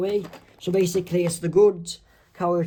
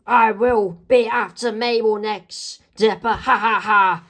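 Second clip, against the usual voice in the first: villain taunt; 4 semitones higher, 3 dB louder than usual. Acted. Villain threatens and laughs.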